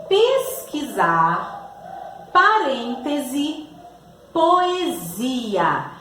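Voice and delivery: slow, measured classroom dictation; teacher sounding out a word list; slow word reading. Shown as a demonstration. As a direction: read each example word slowly, drawn out. Teacher reads out example words.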